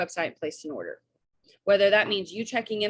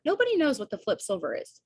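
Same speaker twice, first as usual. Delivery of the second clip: raised pitch, mildly exasperated; emphatic exasperation; 4 semitones higher than usual. Real, not acted. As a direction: stress that nobody has a clue. Exasperated at unexplained jargon.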